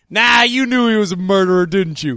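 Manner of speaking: accusing Wolf Blitzer. Pretend. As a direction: needle the guest like a pushy anchor. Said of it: "if you just heard Wolf Blitzer go like".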